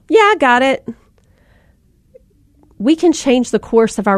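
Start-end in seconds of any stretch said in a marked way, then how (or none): 0.1-0.9 higher, easy, willing reply; light, agreeable parent. Shown as a demonstration. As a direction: answer readily, no trouble at all.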